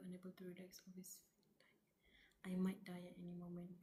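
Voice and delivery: fast, whispered character lines; breathless hurried whisper; hushed reading. Acted. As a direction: read the character's fear in a rushed whisper. Reads a character's lines in a hush.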